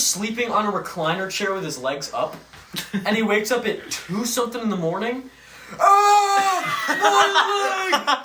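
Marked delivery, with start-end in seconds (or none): 5.8-8.2 sudden yelp of leg pain; pained scream. Retold or imitated. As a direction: cry out in agony. Acting out cramp scream.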